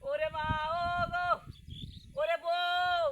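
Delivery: drawn-out wailing lament; hammed-up keening for a dead wife; theatrical crying. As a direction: wail with long held vowels. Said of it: "কান্দিস কে".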